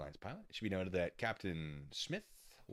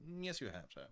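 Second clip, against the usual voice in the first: hammed-up hotel clerk; 3 semitones higher, 4 dB quieter than usual. Clerk correcting the puzzled guest, hammed-up. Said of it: "didn't actually say it like that".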